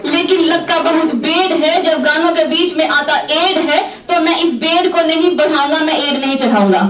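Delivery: lightly imitated Gujarati-accented refusal; Mr. Patel impression. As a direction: play the reluctant businessman with a comic Gujarati accent. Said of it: "mister Patel टोले, फिर बोले".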